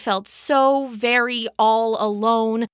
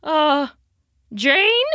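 weak bark; 2 semitones higher, 4 dB louder than usual. A narrator's reading. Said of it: "Charlie barked weakly".

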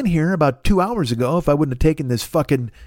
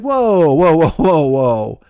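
alarmed townsfolk; 4 dB louder, much slower than usual. Retold or imitated. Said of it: "They're like".

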